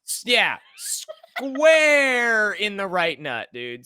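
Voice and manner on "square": long, high, stretched SQUARE; drawn-out emphasis. Retold or imitated. Reliving a hit to the right nut, drawn-out SQUARE. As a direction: draw out "square" loudly.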